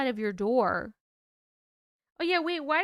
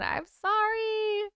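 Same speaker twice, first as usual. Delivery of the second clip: yawning; 2 semitones higher, much slower than usual. Real, not acted. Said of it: "I'm sorry, I keep yawning".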